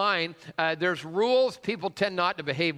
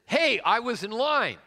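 retold angry call; 6 semitones higher than usual. Older man snaps at line-cutter.

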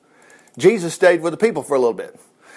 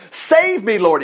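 high cry of save me, higher than the first take; mock cry from a sinking man; retold shout; 4 semitones higher, slower than usual. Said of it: "he shouted".

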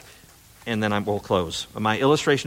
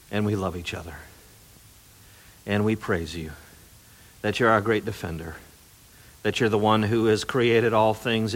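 closing prayer; 2 semitones lower than usual. Acted.

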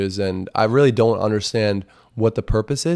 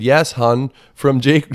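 mock sweet; 4 semitones higher, 4 dB louder, slower than usual. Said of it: "And I said".

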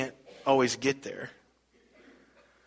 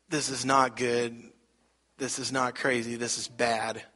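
simmering anger; 3 semitones lower, 6 dB quieter than usual. Retold or imitated. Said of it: "getting madder and madder".

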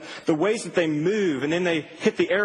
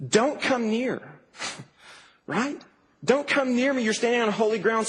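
stern warning; 5 semitones higher than usual. Acted. God warns Moses away.

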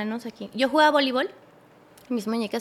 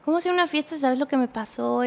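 put-on mildly angry boyfriend; 2 semitones higher than usual. Boyfriend reproaches her over going to a party, mildly angry. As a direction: imitate his annoyed reproach, without shouting. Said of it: "pero enojado".

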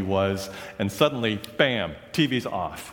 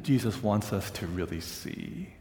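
soft sincere refrain; 6 dB quieter than usual. Acted. Sermon refrain, softened.

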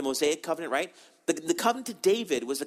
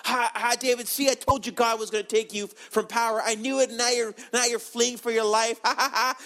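jeering mock laughs, voice raised in pitch; taunting cursing; 5 semitones higher than usual. Heckler on the hill cursing fleeing David, taunting. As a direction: gloat at the fleeing king. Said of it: "he's cursing David".

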